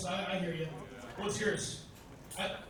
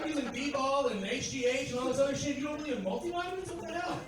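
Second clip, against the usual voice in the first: exasperated, higher-pitched argument; mock incredulous; 4 semitones higher than usual. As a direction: argue back in comic disbelief. Acted argument over multivitamins.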